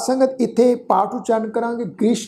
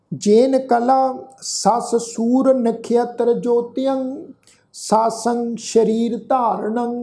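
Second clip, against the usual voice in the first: slow, measured reading of sacred verse; scripture recitation; 2 semitones higher, much slower than usual. Acted. The teacher recites the verse for the sangat, slow and devout. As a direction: intone each word slowly and with devotion.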